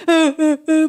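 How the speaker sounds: high, loud imitated sobs; mock sobbing. Teacher showing children how mom cries in prayer, mock sobs. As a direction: fake childlike crying noises. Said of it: "뭐 이렇게 울면서 기도할 때".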